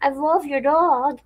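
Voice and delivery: put-on high, eager kid voice; high child voice, delighted; imitating a child. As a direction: gush like a little kid. Kids compliment the dog.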